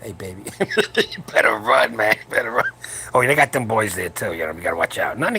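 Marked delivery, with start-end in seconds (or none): 0.0-2.7 creepy guy voice. Retold or imitated. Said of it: "and he goes".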